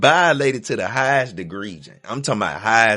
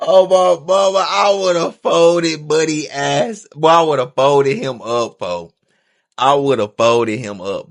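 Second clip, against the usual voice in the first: louder, slowed outrage at the story; loud outburst; 4 semitones higher, 7 dB louder than usual. Real, not acted. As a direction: bellow it, stretching the words. Listener reacts loudly to story.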